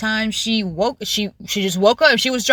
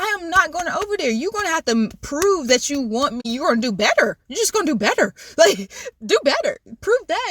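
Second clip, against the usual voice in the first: raised, sassy pitch; high sassy voice; 6 semitones higher than usual. Retold or imitated. Retold demand, high pitched.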